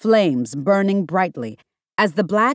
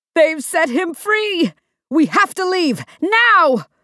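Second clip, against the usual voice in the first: very high, shrill yelled shout; 10 semitones higher, 3 dB louder than usual. Narrator reads a man's line to the hero, shouting. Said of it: "the man shouted".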